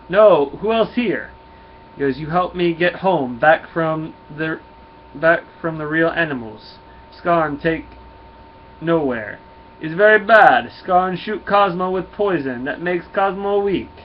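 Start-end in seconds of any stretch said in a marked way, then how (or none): 0.1-1.3 put-on loud, slow, high Russian accent; indignant dog with a put-on Russian accent; Cosmo. Cosmo answers a disbelieving Nova, exasperated Russian accent. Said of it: "always wanna do a Russian accent". 2.2-13.9 put-on slow, emphatic Russian accent, pitched up; hammed-up Russian dog, loud and halting; Cosmo. Cosmo tells Nova of his poisoning, slow Russian accent. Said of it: "always wanna do a Russian accent".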